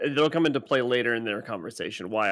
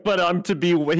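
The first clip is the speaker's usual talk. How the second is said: mock defensive; 3 semitones higher, 4 dB louder than usual. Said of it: "it's all defensive".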